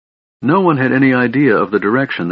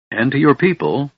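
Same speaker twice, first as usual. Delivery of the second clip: sharp reminder; 6 semitones higher than usual. A narrator's reading. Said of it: "Lorana reminded her sharply".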